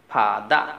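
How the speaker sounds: ফা দা in two separate parts, open "dah"; British silent r. Shown as a demonstration. Teacher giving English for father, ফা দা without r. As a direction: say ফা দা with no final r. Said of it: "ঠিক ওরকম".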